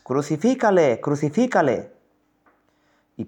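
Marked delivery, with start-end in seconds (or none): 0.0-1.9 higher, swooping crowd cry; crowd shouting more. A narrator's reading. Reader voices the crowd insisting to Pilato, shouting more. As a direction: cry out insistently, stretching the word. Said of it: "gritaban aún más".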